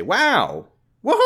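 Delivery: loud, high mock whoop; excited cheering. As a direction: whoop it up as a thrilled listener. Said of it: "engage with it and say".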